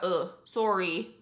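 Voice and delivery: slow Canadian "soh-ree", rounded O; Canadian sorry. Shown as a demonstration. Vlogger explaining the vowel, slow Canadian "soh-ree". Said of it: "it's, like, more of a".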